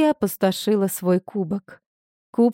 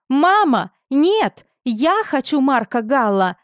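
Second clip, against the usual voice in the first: much higher and louder, pleading; desperate protest; 5 semitones higher, 3 dB louder than usual. A narrator's reading. Daughter refuses her mother's order, loud desperate plea. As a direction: cry out against her mother, begging.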